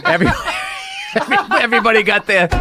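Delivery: shouting through laughter; laughing shout. Real, not acted. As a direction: burst out laughing mid-word. Laughing fit while telling.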